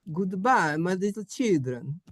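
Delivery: hammed-up Italian papa; Italian accent, lifted on the goodbye. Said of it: "don't say it with that accent".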